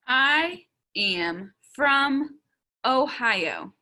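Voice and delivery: very slow, gaps between words; word-by-word reading. Shown as a demonstration. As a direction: read it back slowly, one word at a time. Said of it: "make sure I have all my words".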